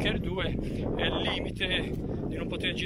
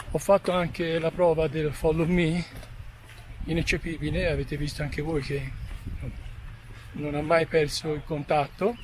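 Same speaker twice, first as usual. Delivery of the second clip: breathless walking downhill; panting a little between phrases; out of breath. Real, not acted. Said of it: "Scusate il fiatone".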